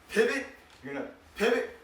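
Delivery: each pivot pitched high and rising; emphasis on pivot. Shown as a demonstration. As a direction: make pivot pop up above the rest. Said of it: "emphasis on the pivot".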